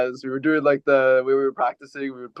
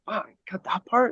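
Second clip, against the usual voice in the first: mock surprise; 7 semitones higher, 5 dB quieter than usual. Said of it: "I was just like".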